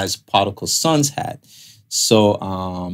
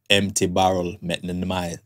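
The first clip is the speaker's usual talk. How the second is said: put-on Jamaican accent; 3 semitones lower than usual. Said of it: "I'm gonna say it in my Jamaican voice".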